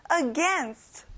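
Against with a strong second syllable, "gainst"; teacher's model Against, stressing "gain" over the opening "A". Shown as a demonstration. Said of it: "gain에 세게 발음을 넣어보세요".

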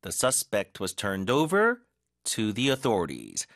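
very slow, careful model sentence; slow demo reading. Shown as a demonstration. Teacher reading the example slowly for learners. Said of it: "이렇게 해주시면 되겠죠".

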